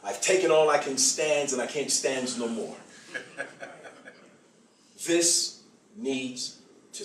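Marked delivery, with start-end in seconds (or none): 0.0-2.8 lightly voiced Popeye, laughing through it; a hint of cartoon sailor grit. Preacher quoting Popeye to the senators, lightly voiced. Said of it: "In my Popeye's voice".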